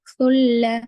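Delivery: सुल्ल with the doubled lam held firm and thin; hard doubled lam. Shown as a demonstration. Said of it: "लाम पे शद्दा, इसलिए यहाँ पर सख्ती से पढ़ रहे हैं".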